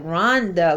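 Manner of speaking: low "Rhonda", imitating the customer; imitating his pronunciation. Customer stepped up to the cashier, imitated low "Rhonda". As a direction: say "Rhonda" low and drawn out, as he did. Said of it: "you know how he pronounced".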